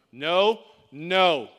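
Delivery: loud, panicked no, no; rising no. Retold or imitated. Son refusing the slide at the top, loud protest. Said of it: "I mean, he's getting loud".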